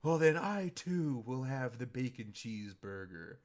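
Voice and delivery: mock grand declaration. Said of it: "And he goes".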